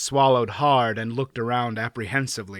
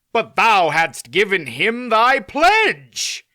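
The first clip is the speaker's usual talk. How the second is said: earnest knight; 8 semitones higher, 7 dB louder, slower than usual. Acted. Knight voice, slow.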